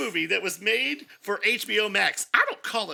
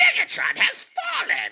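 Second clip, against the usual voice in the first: very high, loud, swooping robot voice; 6 dB louder than usual. Retelling how a power-hungry villain reacts to his leader tripping: Starscream voice. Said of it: "he'd be like".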